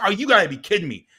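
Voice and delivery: fast, high-pitched indignant outburst; pissed-off disbelief. Retold or imitated. Dad hearing another kid got the call, angry disbelief. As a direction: blurt it out incredulously. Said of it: "Now I'm even more pissed".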